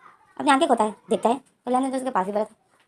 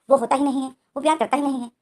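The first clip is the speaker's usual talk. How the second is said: angry outburst; 3 semitones higher, 4 dB louder than usual. Acted. Wing to the midwife, angrily complaining about Lenjan. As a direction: blurt out the grievance in anger. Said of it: "गुस्से में होता है wing".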